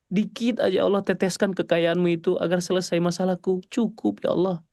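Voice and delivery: pleading whine to God. Shown as a demonstration. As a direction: lightly whine like a child asking a parent. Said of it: "Rengeklah ke Allah tuh".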